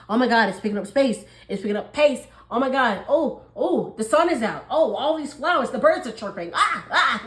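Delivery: mock excited. Earth signs feeling spring arrive.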